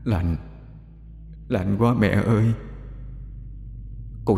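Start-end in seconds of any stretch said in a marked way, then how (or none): 0.0-2.4 put-on soft, trembling voice of a drowned boy; softer ghostly boy calling his mother, cold and shaking; possessed young man's voice. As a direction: shiver the words out, spirit speaking through an old woman. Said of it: "giọng nói trầm trầm, rất giống giọng của một người thanh niên".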